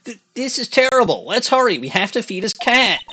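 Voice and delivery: mock panic. The lawyer urges hurrying to feed the cat, in mock high-pitched panic.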